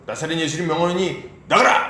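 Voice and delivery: imitated disciple ordering a demon out; mock exorcism, punching the final command; exorcist command. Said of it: "전에는 뭐 어떻게 합니까".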